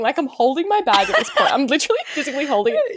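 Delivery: laughing while telling. Real, not acted.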